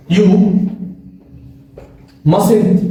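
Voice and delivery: one word at a time, long gaps between; slow word by word dictation. Shown as a demonstration. Teacher dictating to students, slow and separated. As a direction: spell it out slowly for the class. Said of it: "فقلت لك".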